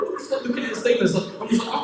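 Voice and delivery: ordinary delivery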